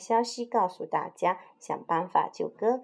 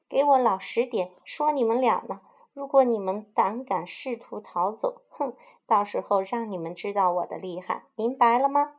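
loud, barking threat; bully them into staying put; stern shout; 2 semitones higher, 3 dB louder than usual. Acted. Sword-bearing rooster threatening the newcomers, loud stern shout. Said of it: "一声大喊".

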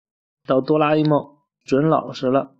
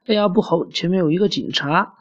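nervous; 5 semitones higher than usual. Pretend. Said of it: "阿瓜紧张地说".

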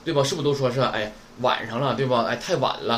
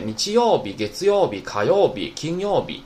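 each weekday with 曜 pitched high, then dropping; 2 semitones higher than usual. Shown as a demonstration. Teacher listing weekdays to show the tune, 曜 high each time. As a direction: raise 曜 in every 曜日 of the list. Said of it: "都是曜这个假名是高音".

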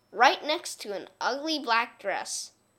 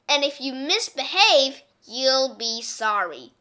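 louder warning that drops at the end; a strict teacher's loud threat; stern threat; 3 semitones higher, 6 dB louder than usual. Acted. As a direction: warn the children they'll regret it. Miss Swamp threatens the class.

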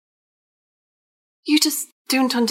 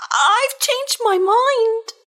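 nervous backing out; 8 semitones higher, much slower than usual. Acted. Pigeon backs out in fright.

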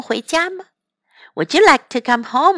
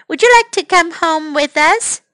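Topsy asking; 5 semitones higher than usual. Acted. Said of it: "so she asked one".

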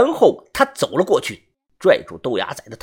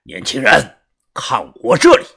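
loud call; 3 semitones lower, 5 dB louder than usual. Acted. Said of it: "然后大声地说".

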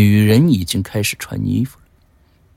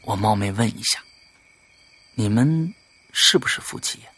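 soft, discreet question; hushed asking; 3 semitones lower, 8 dB quieter than usual. A narrator's reading. Visitor questioning the man on the stone path, hushed. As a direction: ask quietly and tentatively. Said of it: "来者小声问".

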